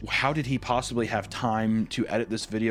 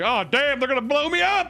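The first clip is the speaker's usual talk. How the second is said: high hammed-up panic; mock panic; 11 semitones higher, 4 dB louder than usual. Podcaster imitating the doomed hero, mock panic. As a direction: yelp like he's about to be blown up. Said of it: "He's like".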